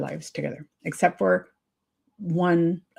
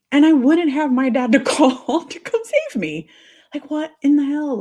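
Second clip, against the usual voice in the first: laughing disbelief; 7 semitones higher, 4 dB louder than usual. Real, not acted.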